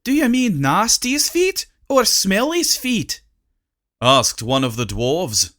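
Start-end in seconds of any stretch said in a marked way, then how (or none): 0.0-3.2 dwarf voice. Acted. A dwarf asks.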